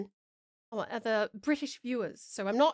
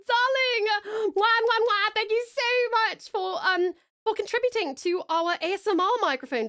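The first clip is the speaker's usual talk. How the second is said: high, loud, air-kissing delight; shower the donor with kisses; gushing thanks; 9 semitones higher, 4 dB louder than usual. Real, not acted. Streamer thanks a donor for the microphone: high gushing delight.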